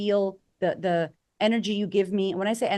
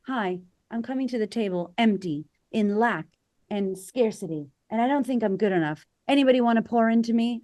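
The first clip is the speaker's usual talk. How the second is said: needy pleading; 3 semitones higher than usual. Pretend. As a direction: play someone empty asking for help. Acting a needy person.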